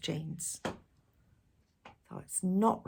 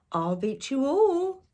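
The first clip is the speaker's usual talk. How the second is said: eager boast; 7 semitones higher, 5 dB louder, slower than usual. A narrator's reading. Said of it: "Ben cried".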